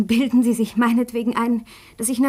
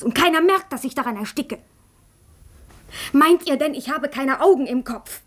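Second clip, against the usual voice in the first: bitter outburst; 3 semitones higher than usual. Acted.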